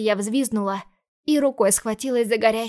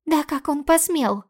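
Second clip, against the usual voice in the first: pepper her sister with scared questions; frightened little sister; 6 semitones higher than usual. Acted. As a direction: younger sister demands answers, alarmed. Sister outraged.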